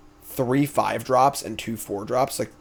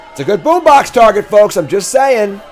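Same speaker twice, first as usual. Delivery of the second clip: excited aside; 8 semitones higher, 9 dB louder than usual. Real, not acted. Pitching a play to chat.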